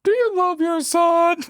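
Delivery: very high, eerie menace; high creepy monster taunt; creepy creature voice. Acted. Big Nose's sinister question.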